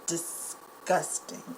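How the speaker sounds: breathy, drawn-out disgusted whisper; real revulsion, barely voiced. Real, not acted. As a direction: let the disgust hiss out, slowly. Appalled by police videos.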